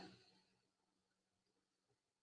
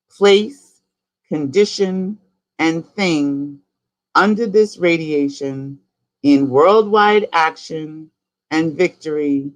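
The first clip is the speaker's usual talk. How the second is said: fervent decree; much slower than usual. Acted. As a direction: build the litany, then let it sink to a hush. Long decree, fading out at end.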